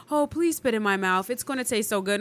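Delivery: soft, sweet mock begging; soft mock plea. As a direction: coo it gently, half joking. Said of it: "you're not gonna be like".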